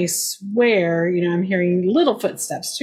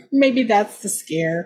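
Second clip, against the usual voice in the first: laughing; slower than usual. Real, not acted. Joking while laughing.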